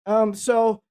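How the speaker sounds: lightly acted pointed retort; sarcastic comeback. Veteran tells doubters he outlasted them, sarcastic comeback. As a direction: needle them with mild sarcasm. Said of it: "that was my answer to their sarcasm".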